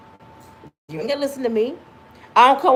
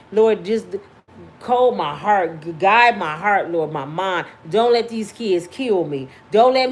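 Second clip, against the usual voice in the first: prayer; 3 semitones lower than usual. Real, not acted. Praying aloud to God.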